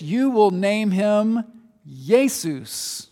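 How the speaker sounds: Jesus said as /jeɪsus/, Y sound and long u; Hebrew-style Jesus. Shown as a demonstration. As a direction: say Jesus the old way, YAY-soos. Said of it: "If you pronounce it in English".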